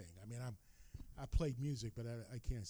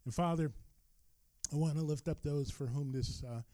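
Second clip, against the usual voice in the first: earnest pastoral prayer voice. Real, not acted. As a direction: pray aloud for the congregation. Pastor leads congregation in prayer.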